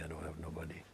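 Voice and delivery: whispered, self-pitying and small; lonely whisper. Retold or imitated. The lonely mind on Christmas, in a whisper. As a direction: breathe it out like nobody can hear.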